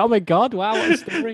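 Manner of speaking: high, gushing mock astonishment; mock amazement. Host imagining his reaction to the Tony Daly story, mock amazement. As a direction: react as if wowed by a big story.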